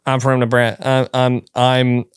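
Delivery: hesitant try at a Nebraska accent; tentative mock Nebraska voice. Shown as a demonstration. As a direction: feel your way into a Nebraska accent.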